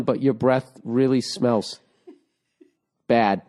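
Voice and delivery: giggling through the bad news; can't keep a straight face; laughing while breaking it gently. Real, not acted.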